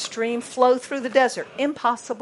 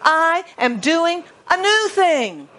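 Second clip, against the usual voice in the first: voice of God; 7 semitones higher, 3 dB louder, slower than usual. Acted. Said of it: "because God says".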